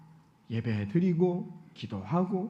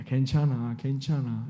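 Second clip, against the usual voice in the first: gentle comfort; 3 semitones lower, slower than usual. Retold or imitated. Pastor voicing Jesus comforting Peter, gently reassuring. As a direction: reassure a frightened disciple kindly. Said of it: "이렇게 위로해 주시면".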